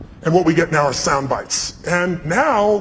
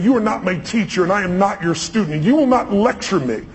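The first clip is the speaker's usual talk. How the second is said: angry retort; 3 semitones higher than usual. Retold or imitated. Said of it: "I could feel the anger".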